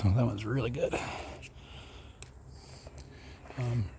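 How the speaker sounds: talking while chewing something crunchy; crunching. Real, not acted. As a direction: speak through a crunchy mouthful. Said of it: "Pardon the crunching".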